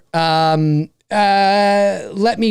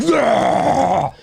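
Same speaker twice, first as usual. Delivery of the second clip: imitated taunting roar. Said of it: "you're like".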